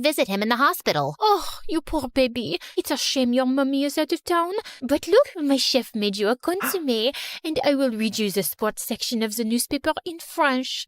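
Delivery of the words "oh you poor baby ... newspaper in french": a lightly voiced, sweetly condescending rich girl; snooty rival girl. Rival girl mocking Erica in her sickbed, sugary and smug. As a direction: lay the fake pity on thick.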